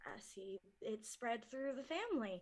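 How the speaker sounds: hushed aside; whisper. Real, not acted. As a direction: breathe it out unvoiced.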